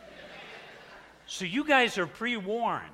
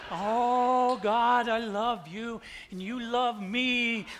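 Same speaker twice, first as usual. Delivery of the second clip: mock praise; 5 semitones higher, slower than usual. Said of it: "I'm probably praising Jesus".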